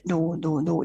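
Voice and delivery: soft, sinking denial; faint ghostly voice. Retold or imitated. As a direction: barely breathe the refusal. Spirits refuse to look up.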